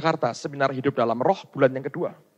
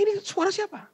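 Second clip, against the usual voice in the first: startled, high-pitched question; kaget; 14 semitones higher, 5 dB quieter than usual. Retold or imitated. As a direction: retell a sudden startle, pitch shooting up. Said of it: "Saya kaget". (bertanya kaget dengan nada tinggi)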